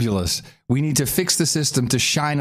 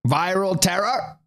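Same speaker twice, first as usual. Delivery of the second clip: fake Arabic accent; 6 semitones higher, slower than usual. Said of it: "I can't get the accent right".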